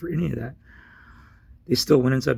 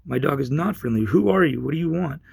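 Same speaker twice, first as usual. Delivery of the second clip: retold indignant demand, pitched up; defensive challenge; 3 semitones higher, 3 dB louder than usual. Man challenging stranger at his truck window, defensive. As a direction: push back at a stranger, voice rising.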